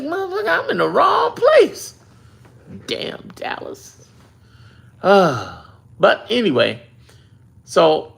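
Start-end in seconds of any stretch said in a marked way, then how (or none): 0.0-1.9 high, exasperated outburst; frustrated exclamation. Retold or imitated. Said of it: "I'm like". 2.9-4.1 slow, hushed curse; whispered grumble. Real, not acted.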